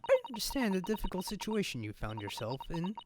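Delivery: a hint of a grave, stern detective; lightly voiced stern detective. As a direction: speak gravely, with a touch of reproach. Voicing a stern detective character.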